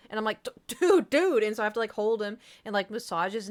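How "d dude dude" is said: louder, higher exasperated "dude"; calling out. Retold or imitated. Scolding her cat for choking himself, louder. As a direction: call out to stop the cat. Cat chokes itself on desk.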